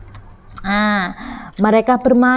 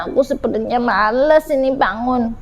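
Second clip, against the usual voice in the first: sleepy, reluctant mumble; drowsy; 3 semitones lower than usual. Acted. Ciki not wanting to get up, drowsy. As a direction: say it as if barely awake. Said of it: "meskipun masih mengantuk".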